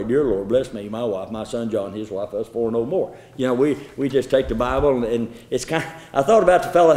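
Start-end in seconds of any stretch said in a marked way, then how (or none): 0.0-3.2 mock selfish prayer. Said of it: "like some people pray".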